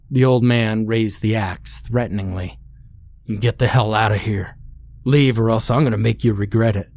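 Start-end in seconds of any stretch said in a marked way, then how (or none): 3.4-6.9 fast, shaky mock bravado; shaky yell. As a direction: fake toughness over fear. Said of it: "Bill yelled, his shaky voice".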